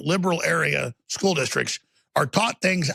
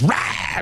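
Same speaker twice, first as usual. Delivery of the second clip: primal roar. Real, not acted. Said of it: "Every instinct in me is just".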